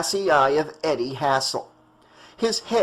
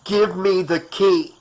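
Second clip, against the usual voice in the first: ordering; 3 semitones higher, 4 dB louder than usual. Acted. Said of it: "Doctor Cruz ordered".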